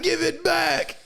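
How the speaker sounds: squeaky high voice, mocking the demon. Friends retelling an anime fight, squeaky high voice. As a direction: pitch way up for a silly retold demand. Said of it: "he said".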